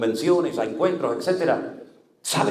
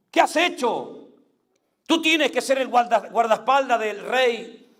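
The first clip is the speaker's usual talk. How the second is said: alto y lento, regaña a Abner desde la montaña; reproche de David; 6 semitones higher than usual. Retold or imitated. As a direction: clama su desprecio, palabra por palabra. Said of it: "le dijo desde lo alto". (David le grita a Abner por descuidar al rey, con reproche lento y alto)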